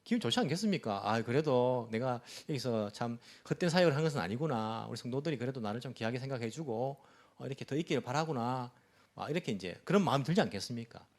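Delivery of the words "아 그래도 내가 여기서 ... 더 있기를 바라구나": lower, subdued musing to oneself; understated private satisfaction. Pretend. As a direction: think aloud, mildly touched. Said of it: "속으로는요, 조금 기분이".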